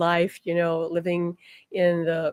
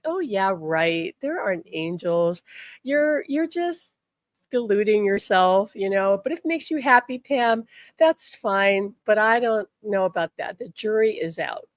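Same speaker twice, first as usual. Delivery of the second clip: mocking husband. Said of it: "he just made fun of it".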